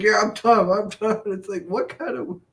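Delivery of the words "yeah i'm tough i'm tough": high, loud mocking boast; mocking a wrestler's tough talk; mock tough guy. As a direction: brag in a goofy put-on voice. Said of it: "He's like".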